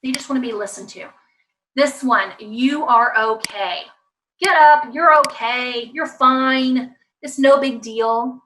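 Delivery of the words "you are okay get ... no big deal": firm, punched insistence; acted brush-off of a child's upset; mock dismissive parent. Acts dismissive parent's brisk orders.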